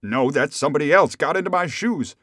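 frantic, high and building; at wits' end. A narrator's reading. Rip no longer knows who he is, frantic confusion. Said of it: "at his wits' end".

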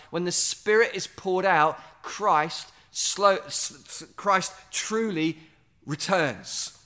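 slow, savoring each word, stumbling on Christ; said slowly. Shown as a demonstration. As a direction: let it sink in word by word. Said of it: "Say that slowly to yourself".

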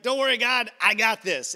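cocky reassurance. Retold or imitated. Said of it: "we're like".

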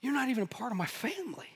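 choked whisper, close to tears; welling up. Retold or imitated. Workmate, moved to tears, whispers to the coworker who brought Bailey's. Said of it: "the guy began to well up and went".

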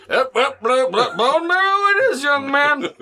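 Muppet voice. Acted. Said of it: "That's why I'm doing that voice".

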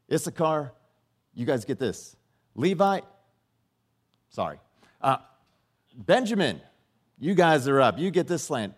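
like a host announcing winners, rising with each name; God calling out tribes. Acted. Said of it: "And he's like".

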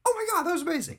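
high, breathy-free amazed squeal of delight; mock awe. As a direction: gush like a stunned fan. Retold awe at the crane kick.

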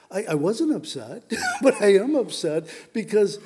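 a short laugh mid-confession; laughing admission. Real, not acted. Preacher admits to congregation he's upset, laughing briefly. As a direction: break into a little laugh, then insist.

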